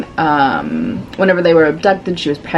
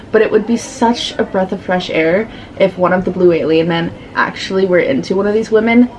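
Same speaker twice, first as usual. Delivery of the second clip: ordinary talk, nothing marked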